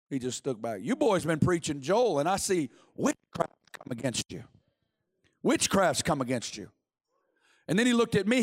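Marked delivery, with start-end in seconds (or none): 0.8-6.7 Bob Jones. Acted. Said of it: "And he goes".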